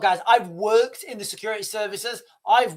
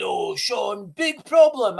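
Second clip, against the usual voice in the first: broken English; 2 semitones higher, slower than usual. Retold or imitated. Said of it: "It was broken English".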